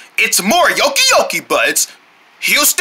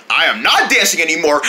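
shouting; 3 semitones lower, faster than usual. Acted. Kid angrily denies dancing.

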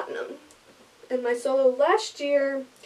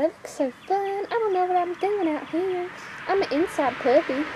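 whiny dog voice; 7 semitones higher than usual. Pretend. Voicing the dog.

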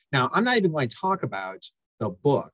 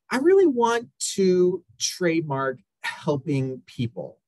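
higher, slow, eager client voice; bad acting; 5 semitones higher, 3 dB louder, slower than usual. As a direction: play the eager client, overdone. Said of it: "forgive my acting skills".

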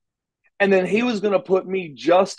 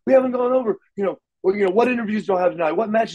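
imitating a mildly panicked boss; lightly acted backstage panic; retold fluster; 5 semitones higher, much faster than usual. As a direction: rattle off worried questions in a mock fluster. Retold boss panicking that show started.

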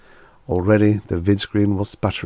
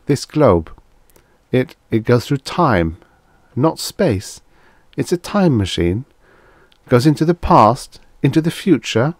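higher, eager disbelief; excited; 6 semitones higher, 4 dB louder than usual. A narrator's reading. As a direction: piece it together, growing amazed. Groves grasps the time machine.

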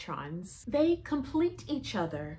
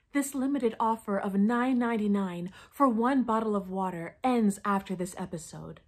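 infomercial pitch; 3 dB louder than usual. Acted. Infomercial call to action.

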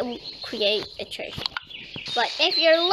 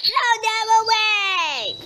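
a raised annoyed order; indignant command; 6 semitones higher than usual. Real, not acted. Angry at the intruders.

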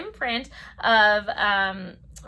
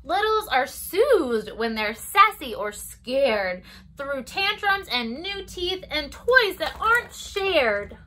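lilting storybook read-aloud; circle-time story voice; reading to children; 3 dB louder, slower than usual. Acted. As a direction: read it gently to toddlers. Reads picture book to children.

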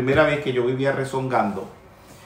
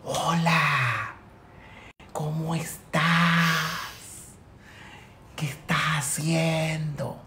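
softer, slowed phone greeting so nobody wakes; hushed late-night voice; 2 semitones higher, 5 dB quieter, slower than usual. Acted. Baritone answering a call at two in the morning, hushed. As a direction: keep it down, drawing out the greeting. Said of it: "para no despertar a la gente".

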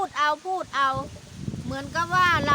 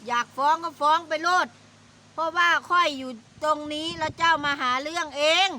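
retold defiant retort; 3 semitones higher, 3 dB louder than usual. Aunt's retold comeback.

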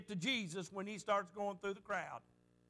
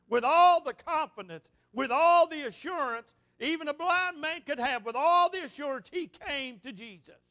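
rising fervor; 3 semitones higher, 4 dB louder than usual. Acted. Preacher builds with fervor.

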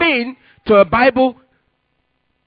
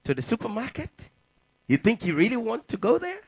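a voice within; 7 dB quieter than usual. Retold or imitated. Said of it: "Then the voice said".

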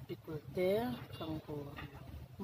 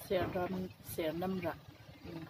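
talking while taking a bite; speaking around held food; food at lips; slower than usual. Real, not acted. Seen 1: From 1.3s she holds food against her lips while talking.

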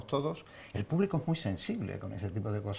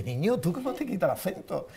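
put-on old dubbing actress; 7 semitones higher than usual. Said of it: "y ella me decía, dice".

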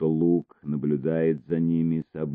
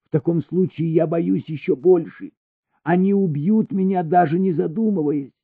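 much higher, fearful pleading; frightened; 13 semitones higher, 5 dB louder than usual. A narrator's reading. Elina tells Baker she is afraid, high and fearful. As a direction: voice climbing in fear.

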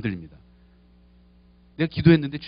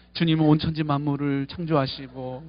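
fake pious prayer; 3 semitones lower, 4 dB quieter, slower than usual. Shown as a demonstration. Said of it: "이런 가식적으로 하는 기도 필요 없습니다".

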